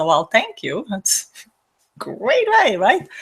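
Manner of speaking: mock-cheerful thanks with a high squeak on "way"; laughing it off. Laughing off an insult with mock-cheerful thanks. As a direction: shrug it off with breezy fake thanks. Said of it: "I laugh at it and I say".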